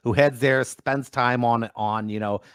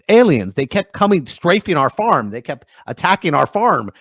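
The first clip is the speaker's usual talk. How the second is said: a raised, urgent retelling of the dad; lightly voiced, louder alarmed father; excited dad; 4 semitones higher, 4 dB louder than usual. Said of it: "he goes".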